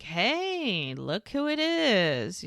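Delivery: slow, drawn-out acted hello; mock-friendly greeting. Jimmy spots Brady at the bar, mock-friendly greeting. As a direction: stretch it out like spotting someone at a bar.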